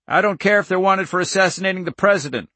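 high, agitated protest; high, cracking. A narrator's reading. Farmer defies the government agents, high and cracking. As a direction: protest hotly with the pitch pushed up. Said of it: "His voice was high, cracking".

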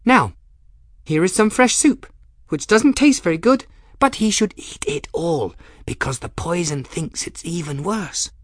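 put-on high-pitched, brisk dotty girl, dropping at the end; chattering odd girl. Young woman serving soup to her patient, high dotty chatter. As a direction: announce it high, to nobody in particular.

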